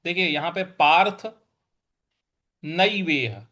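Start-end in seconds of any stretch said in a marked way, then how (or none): 2.6-3.5 नैवेह with a clear ai vowel on नै. Shown as a demonstration. Teacher models the ai vowel for students. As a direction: open नै as nai, then वेह. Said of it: "न पर ऐ की मात्रा जो है, इसको हम ऐ बोलेंगे".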